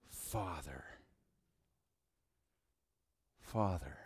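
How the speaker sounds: soft, low, broken call; Jesus crying out at the cross, softly; quiet anguished cry. Acted. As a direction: call out the Father in quiet grief.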